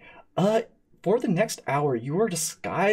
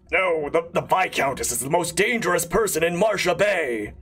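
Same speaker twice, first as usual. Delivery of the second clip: slightly raised, lightly garbled masked figure; lightly muddy the words, voice a little higher; 4 semitones higher than usual. Acted. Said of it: "says in a very garbled voice".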